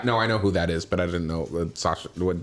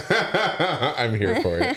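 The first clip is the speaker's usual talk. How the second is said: laughing; 4 semitones higher, much slower than usual. Real, not acted. Laughing at the imitation.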